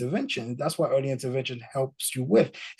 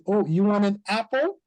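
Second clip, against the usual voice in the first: gentle parent correction; 7 semitones higher, 3 dB louder than usual. Shown as a demonstration. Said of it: "You say".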